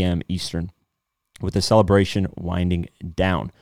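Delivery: reading a gossip article aloud; bright, punchy news-anchor read. Acted.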